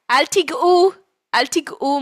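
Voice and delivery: high, loud mock warning; warning mother. Mother keeping family off the guests' food, warning. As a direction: warn them off urgently.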